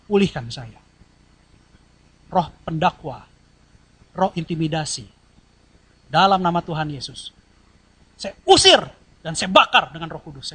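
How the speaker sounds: firm declaration casting out spirits; a preacher's bold deliverance prayer; rebuking prayer. Retold or imitated. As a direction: command the spirits out, rising on usir. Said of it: "Saya bilang".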